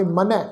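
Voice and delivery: ਮਨੈ with a nasal ai ending; teacher models ਮਨੈ; pronunciation model. Shown as a demonstration. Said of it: "ਦੁਲਾਵਾਂ ਦਾ ਪਾਠ ਨਾਲ ਬਿੰਦੀ".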